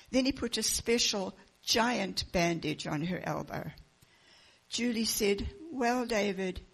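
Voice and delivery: put-on reading a picture book aloud to children; lively storybook narration with the characters' lines voiced; story reading. Pastor reading a children's book to the congregation, storytelling voice.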